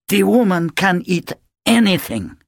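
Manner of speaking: deep scorn. A narrator's reading. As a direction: spit it out with disdain. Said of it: "The depth of Natasha's scorn".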